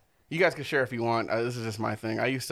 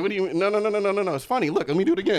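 higher, louder eager pleading; mock pleading; 7 semitones higher, 5 dB louder, faster than usual. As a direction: beg him to watch again. Retold pleading with friend.

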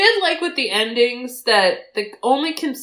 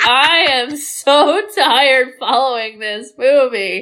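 mock weary; slower than usual. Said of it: "I was like".

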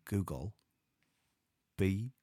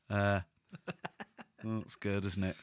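normal talking voice

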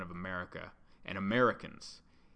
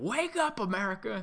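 mock yell; 10 semitones higher than usual. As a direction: belt it like a street preacher. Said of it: "this dude yelled".

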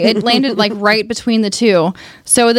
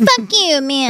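playful fuck you; 3 semitones higher, slower than usual. Shown as a demonstration. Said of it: "Just a little bit of fuck you".

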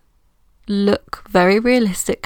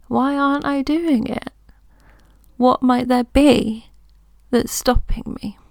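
genuinely curious, pitched higher; curious self-question with a higher lift; 4 semitones higher than usual. Retold or imitated. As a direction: wonder about it with open interest, not panic. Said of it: "That is an interesting question".

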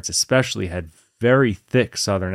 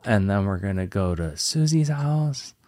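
put-on Valley Girl uptalk; 3 semitones higher than usual. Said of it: "everything sounds like a question".

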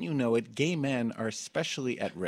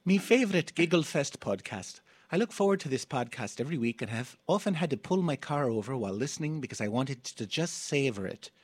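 a playful put-on Irish lilt that gets the title right with "Giggle Fest"; a mock Irish brogue that lands "Me favourite Giggle Fest podcast"; Irish accent; 2 semitones higher than usual. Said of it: "attempt an Irish accent".

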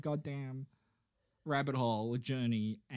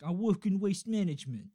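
higher-pitched put-on man's line; waste management cover story; 4 semitones higher, 4 dB louder than usual. Podcaster voices a dream man's alibi, put-on higher voice. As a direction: act out his innocent cover story. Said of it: "he was like".

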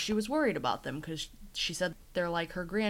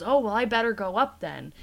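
eager rush; 4 semitones higher, 7 dB louder than usual. Retold or imitated. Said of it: "And he goes".

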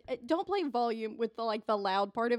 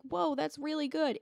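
imitated amazement; 5 semitones higher, slower than usual. Quotes table's impressed reaction.

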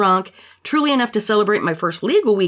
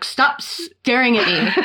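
laughing quote; 4 semitones higher, slower than usual. Retold or imitated. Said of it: "and I'm like".

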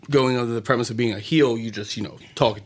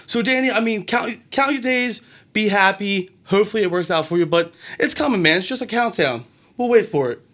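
wrestling promo. Acted. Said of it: "my one huge critique for your promo".

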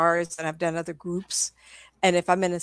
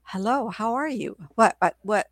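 1 confused spirit; 3 semitones higher than usual. Retold or imitated. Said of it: "they go".

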